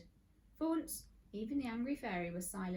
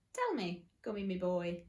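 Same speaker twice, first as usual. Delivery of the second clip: cunning detective; 4 dB louder than usual. Acted. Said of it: "twirling his invisible moustache cunningly".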